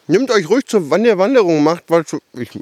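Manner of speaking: talking with a mouthful; mit vollem Mund. Real, not acted. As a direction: speak through a bite of sausage. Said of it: "ich rede hier mit vollem Mund". (mit vollem Mund gesprochen)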